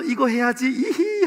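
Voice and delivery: high, gleeful little giggle at the end; a worker gloating over his evening game; giddy giggle. Retold or imitated. A worker heading home to play, giggling in glee.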